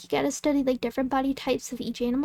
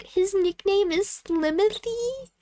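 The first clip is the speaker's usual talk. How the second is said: delighted surprise; 5 semitones higher, slower than usual. Retold or imitated. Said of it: "And I'm like".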